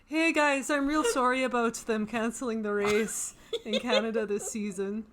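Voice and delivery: lightly voiced Canadian accent, laughing through it; a playful Canadian accent as Latifi, eh; Canadian accent impression. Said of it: "Latifi reaction? / I love the Canadian accent".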